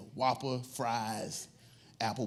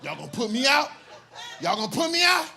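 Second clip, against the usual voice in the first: much higher, louder outraged question; indignant yell; 11 semitones higher, 7 dB louder than usual. Retold or imitated. Blade yelling at the manager who throws him out. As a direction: shout the disbelief up high. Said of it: "This is what he said".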